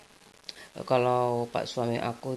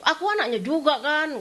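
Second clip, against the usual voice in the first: put-on higher, insistent child voice; whiny protest; 12 semitones higher than usual. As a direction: claim your share as her child. Streit mit Mutter ums Erbe.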